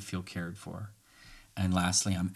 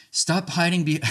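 mock accusation; 9 semitones higher, 5 dB louder than usual. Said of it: "how's this one for a last one?".

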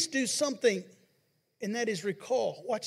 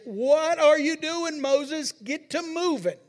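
voice of God; 7 semitones higher, 7 dB louder, slower than usual. Retold or imitated. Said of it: "and God says".

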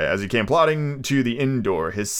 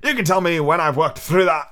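higher, louder gruff pirate voice; gruff old captain; 5 semitones higher, 3 dB louder than usual. Acted. Old captain ordering rum from the innkeeper, gruff. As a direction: bark it like a seasoned buccaneer. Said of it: "looking as fierce as a commander".

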